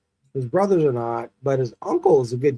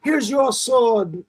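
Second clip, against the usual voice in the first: put-on high, slow squeaky kid voice; squeaky boy voice; 5 semitones higher, much slower than usual. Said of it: "He's that squeaky little voice".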